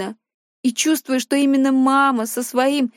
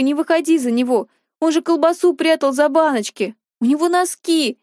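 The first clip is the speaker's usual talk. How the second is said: shouting; 3 semitones higher than usual. Acted. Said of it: "Я кричу".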